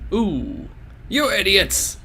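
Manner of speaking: angry outburst. Acted. Susumu furious at his men.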